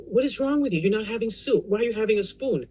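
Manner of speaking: mother's complaint. Retold or imitated. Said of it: "She'd say".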